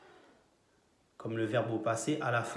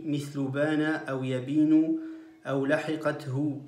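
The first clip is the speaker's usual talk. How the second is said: poem recitation. Acted. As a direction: recite the grammar poem in measured cadence. (récitation du poème en arabe)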